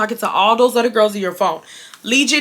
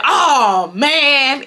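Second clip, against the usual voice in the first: drawn-out, higher-pitched dismay; mimicked exasperated groan; 4 semitones higher, 3 dB louder than usual. Caught ex before hanging up, mimicked exasperated dismay. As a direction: imitate him caught out, stretching it. Imitates him as he hangs up.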